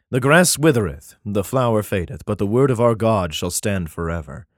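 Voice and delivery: solemn, measured Bible reading; declaiming scripture, slowing at the end. Acted. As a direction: read it like a King James passage. Reads Isaiah aloud.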